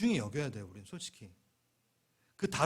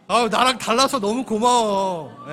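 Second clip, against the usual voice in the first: much louder and higher, slow and drawn out; loud heartfelt thanks; 6 semitones higher, 13 dB louder, slower than usual. Shown as a demonstration. Preacher leading the church to thank each other, loud and slow. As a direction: call it out warmly to the congregation. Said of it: "그럼 이렇게 얘기합시다".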